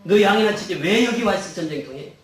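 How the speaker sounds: acted big-brother telling-off; mock-angry rebuke with punched openings; angry scolding. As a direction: scold a little brother, fairly loudly. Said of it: "화를 내면서 말합니다".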